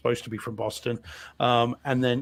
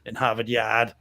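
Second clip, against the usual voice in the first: slow, mock Boston accent; accento di Boston esagerato; 2 semitones lower than usual. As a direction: imitate a badly done Boston accent. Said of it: "worst Boston accent in this".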